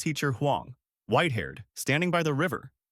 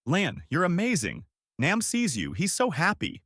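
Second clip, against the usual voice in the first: higher-pitched, understated sobbing praise; 7 semitones higher than usual. A narrator's reading. Teacher hugging her pupil, understated tearful cry. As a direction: praise her high, moved but without real sobs.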